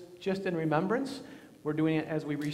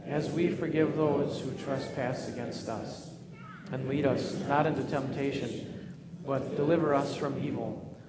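prayer. Acted. Leads a spoken prayer.

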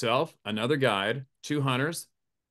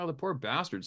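much softer pitying murmur; 7 dB quieter than usual. Retold or imitated. The guide pitying the Hungarian hunter, a much softer murmur. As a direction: feel sorry under your breath. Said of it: "And I'm like".

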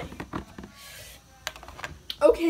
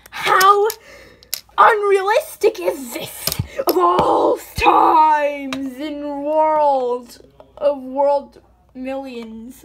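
exasperated outburst; 9 dB louder, slower than usual. Real, not acted. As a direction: complain loudly about the fall. Fell out of chair, exasperated.

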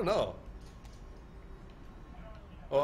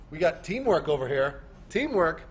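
calling out; 4 semitones higher, 7 dB louder, slower than usual. Real, not acted. Calling out to teammates.

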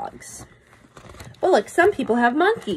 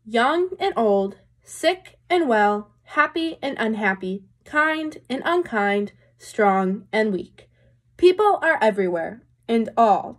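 put-on reading to children. A narrator's reading. Teacher reads picture book aloud.

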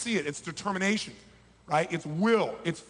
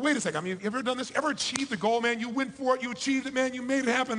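triumphant; 6 semitones higher than usual. Retold or imitated. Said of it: "'Cause most people go".

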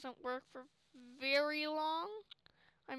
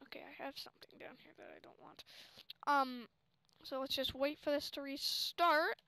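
chewing gum. Real, not acted. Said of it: "I'm chewing gum".

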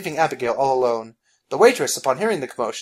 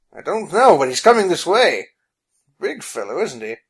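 calm; 4 semitones higher, 5 dB louder than usual. Acted. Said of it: "he said calmly".

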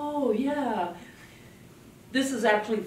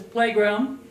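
put-on child's answer; 6 dB louder than usual. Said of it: "The kid says".

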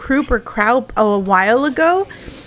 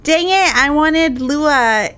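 louder exasperated exclamation; frustrated outburst; 5 semitones higher, 6 dB louder, slower than usual. Real, not acted. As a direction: blurt it out in frustration. Frustrated at stream setup.

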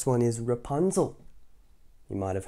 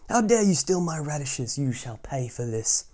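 scolding witch; 3 semitones higher than usual. Acted. Witch threatening the radish thief, menacing. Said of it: "cried the witch".

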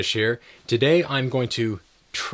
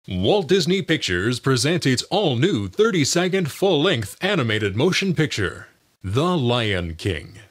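movie trailer voice; 2 semitones higher than usual. Shown as a demonstration. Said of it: "announcer and movie trailer voices".

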